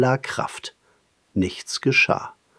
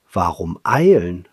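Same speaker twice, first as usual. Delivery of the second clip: contented smacking mumble; 4 semitones lower than usual. Acted. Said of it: "schmatzte er leise vor sich hin".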